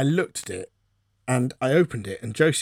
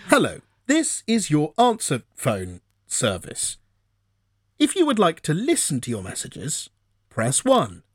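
phone menu voice; 2 semitones higher than usual. Retold or imitated. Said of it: "and it goes".

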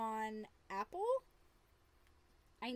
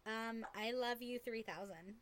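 giggly late night call. Pretend. Mock lovers' hang-up game.

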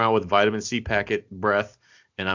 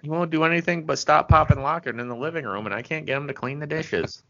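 put-on raised, fretful old-timer complaining; confused old man voice; 8 semitones higher than usual. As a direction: whine like a lost grandpa. Imagining himself old and confused.

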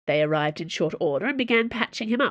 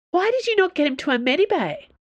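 sharp, higher, louder demand; an admiral snapping loudly at her officers; barking; 11 semitones higher, 4 dB louder than usual. Acted. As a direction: bark it at them, much higher and louder. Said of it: "Treville barked".

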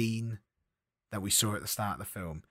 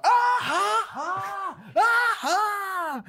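high, shouted, drawn-out ha-has; inappropriate mock laugh; 5 dB louder, much slower than usual. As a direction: laugh hugely and falsely, far too high. Clacker laughing at Hamlet's death.

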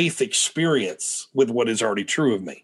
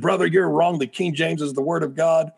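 mildly raised pitch, imitating an objector; retold rebuke; 4 semitones higher than usual. Man stands up mid-message to correct the preacher, mild retold rebuke. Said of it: "just starts rebuking me".

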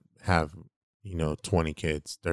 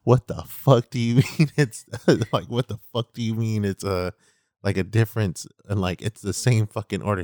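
loud, higher mock outrage, laughing through it; half-laughing angry protest; retold outrage; 4 semitones higher, 5 dB louder than usual. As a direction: imitate an aunt flipping out, amused. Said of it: "my aunt flipped her shit".

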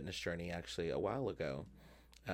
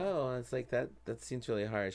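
surprised; 5 semitones higher than usual. Retold or imitated. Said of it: "I was like".

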